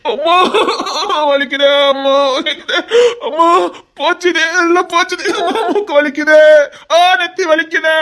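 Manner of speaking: exaggerated moaning over the pain; milk the pain for sympathy; hammed-up wailing. Man hit on nose wails in hammed-up pain.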